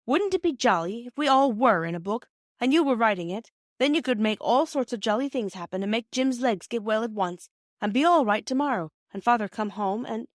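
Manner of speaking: put-on a boy pleading his case with his mother; hint of an excited schoolboy; eager boy. Narrator voices eager boy.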